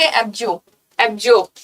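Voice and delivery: एब्जो ending in open "-jo", silent r; correct pronunciation. Shown as a demonstration. Teacher drilling students on pronunciation, एब्जो without the r. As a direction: repeat एब्जो with no final r. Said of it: "pronunciation पे".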